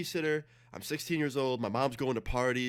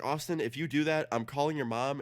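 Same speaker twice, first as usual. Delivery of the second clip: imitated babysitter warning, pitched up; scolding threat; 4 semitones higher than usual. Babysitter threatens to call his mom, scolding. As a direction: lay down the law in a higher mimicking voice.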